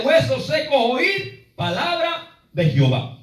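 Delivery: proclaiming. Acted. Reading God's command aloud.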